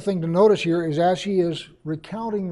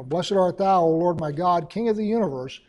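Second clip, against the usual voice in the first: prayer opening; 4 dB louder than usual. Shown as a demonstration. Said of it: "what I start, typically when I start praying is".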